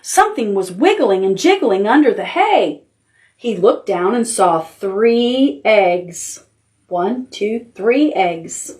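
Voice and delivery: lightly voiced picture book reading; reading to children. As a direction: read it gently, like bedtime.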